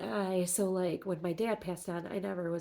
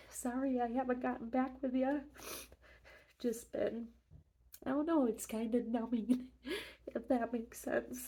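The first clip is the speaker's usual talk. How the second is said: teary, higher, wavering voice; talking through recent tears; after crying; 4 semitones higher than usual. Real, not acted. Grieving talk about late sister.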